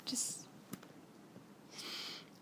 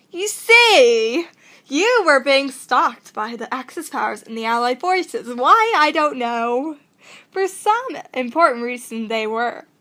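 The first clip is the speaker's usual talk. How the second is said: put-on hammy British accent, drawn-out and emphatic; 4 dB louder, slower than usual. Hidden watcher explaining who stalks you, hammy British accent. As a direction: declaim it in a theatrical British accent. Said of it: "I don't know if I want to do the accents".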